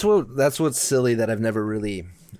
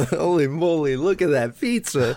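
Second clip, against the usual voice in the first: mock awed mom; 5 semitones higher than usual. Cohost repeats the mom's line.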